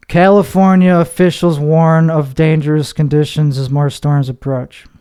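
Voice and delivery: slow deadpan read. Shown as a demonstration. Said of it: "Maybe not so slow".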